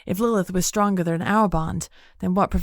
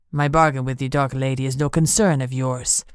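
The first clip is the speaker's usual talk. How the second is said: lower, curt and cold; clipped tone; 4 semitones lower than usual. Acted. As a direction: cut each word short, lower. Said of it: "Benito said in a clipped tone".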